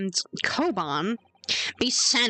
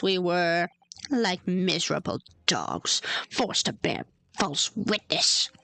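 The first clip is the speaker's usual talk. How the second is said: military man voice; 3 semitones lower than usual. Acted. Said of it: "trying to make him sound like a military man".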